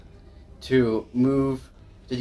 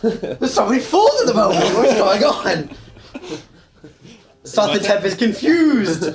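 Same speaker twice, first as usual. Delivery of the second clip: confused villain; 8 semitones higher, 4 dB louder than usual. Acted. Demon character confused.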